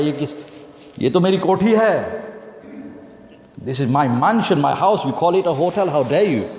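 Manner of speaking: how dare you, lifted in offence; indignant outrage. Acted. Rich man offended.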